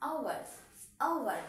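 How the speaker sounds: "আওয়ার" starting straight on the vowel 'au', no h; silent H. Shown as a demonstration. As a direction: say "আওয়ার" as OW-ar, with falling tune. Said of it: "এইচ এর উচ্চারণটা নেই".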